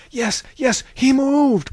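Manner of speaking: loud, high confirming shouts; crying out. A narrator's reading. Another onlooker confirms that he moved, crying out. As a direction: yell it high across the crowd. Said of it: "cried another".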